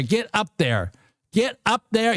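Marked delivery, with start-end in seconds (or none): 1.3-2.1 higher, pushed plea to the chart; excited urging. Real, not acted. Trader urging the price up, excited and high. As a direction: cheer the price up like a horse.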